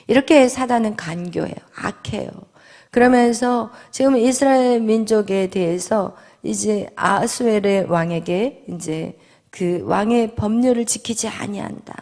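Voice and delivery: ordinary delivery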